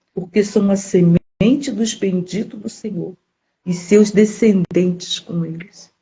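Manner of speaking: slow, weighty Bible reading; scripture reading. Acted. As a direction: read the verse out slowly, like a proclamation. Lê o versículo de Isaías. (leitura bíblica lenta e solene)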